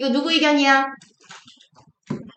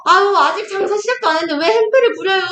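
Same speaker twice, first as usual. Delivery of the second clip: higher-pitched innkeeper's protest, not really shouted; mild mock yell; 7 semitones higher than usual. Teacher plays the tavern keeper scolding a troublemaker, mild mock yell. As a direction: protest like a put-upon tavern keeper, lightly acted. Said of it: "이러면서 막 주모가 소리를 질러요".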